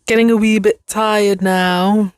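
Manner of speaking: put-on British accent. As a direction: slip playfully into a British accent. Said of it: "Don't know where the British accent came from".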